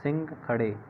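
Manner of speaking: "सा रे" drawn out very slowly; slow teaching drawl; slow mnemonic. Shown as a demonstration. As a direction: break the mnemonic "सा रे" into syllables for the class. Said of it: "कैसे कैसे हैं आसान?".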